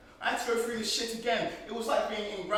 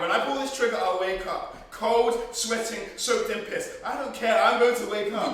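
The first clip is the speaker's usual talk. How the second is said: desperate outburst; 2 semitones higher, 6 dB louder than usual. Acted. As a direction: shout it out, at the edge. Leon, gun at temple, desperate.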